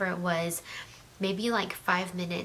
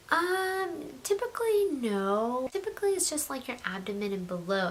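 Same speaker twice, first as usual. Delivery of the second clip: imitating the nurse; 6 semitones higher than usual. Nurse answers about epidural.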